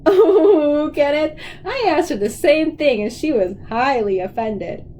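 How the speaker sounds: bursting out laughing on the oh, then talking through it; cracking up. Acted. Dad laughing about Mama's drawing, cracking up. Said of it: "Dad cracked up".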